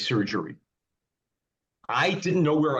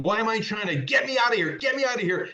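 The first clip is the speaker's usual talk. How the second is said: much higher, frantic mock screaming; patient waking after surgery, screaming in high mock panic; retold frantic scream; 8 semitones higher than usual. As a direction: replay the confused panic, pitch way up. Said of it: "I was screaming, yelling".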